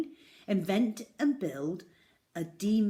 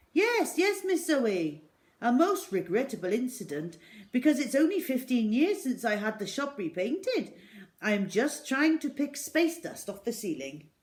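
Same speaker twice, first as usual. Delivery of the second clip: louder, high fib; a shopkeeper going along with the lie; lightly voiced, louder shopkeeper fibbing; flustered shopkeeper; 4 semitones higher, 6 dB louder than usual. A narrator's reading. Raj voiced in story.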